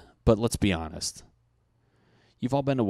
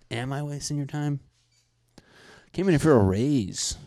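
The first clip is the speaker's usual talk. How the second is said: higher, mock indignant movie line; hammed-up quote from the movie, pitched up; 6 semitones higher, 3 dB louder than usual. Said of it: "that scene from Forty-year-old Virgin".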